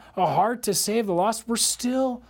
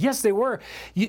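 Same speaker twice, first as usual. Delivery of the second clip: ordinary talk, nothing marked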